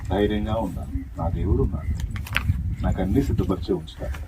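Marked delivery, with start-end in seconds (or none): 1.2-4.2 said calmly and low, settled trust; calm confession. Shown as a demonstration. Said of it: "నింపాదిగా ఉండాలి".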